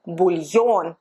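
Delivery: "bouillon" said as bool-YON; Russian yo sound. Shown as a demonstration. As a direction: stress the "yo" at the end of "bouillon". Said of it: "O pronounced as yo".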